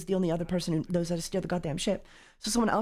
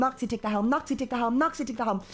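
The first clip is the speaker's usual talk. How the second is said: repeated nagging. Retold or imitated. Acted nagging of a crewmate.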